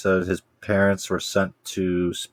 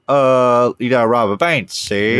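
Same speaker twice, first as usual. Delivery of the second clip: put-on old-timey gangster voice; 3 semitones higher, 3 dB louder than usual. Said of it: "and they're like".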